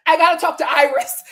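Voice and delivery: high laughing burst then line; laughing mid-cry. Retold or imitated. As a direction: laugh through the tears. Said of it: "mid-cry".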